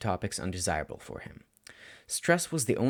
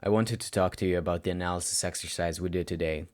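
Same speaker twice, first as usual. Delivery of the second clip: lower, even teacher voice; announced simply; 4 semitones lower than usual. Acted. Teacher opening the talk with his student, low and even. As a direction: state it and let it hang. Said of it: "Shota announced simply".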